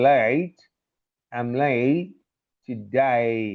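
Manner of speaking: American-accented "late", vowel opened to "eye". Shown as a demonstration. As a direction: demonstrate American "late to die" for "late today". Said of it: "is pronounced in American accent". (American యాసలో "లైట్ టు డై")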